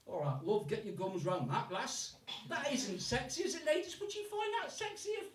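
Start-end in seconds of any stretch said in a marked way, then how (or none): 0.1-2.1 blunt Yorkshire accent; Yorkshire-accented come-on; Yorkshireman. Shown as a demonstration. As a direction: chat her up like a plain-spoken Yorkshireman. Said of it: "This is a Yorkshireman saying exactly the same thing".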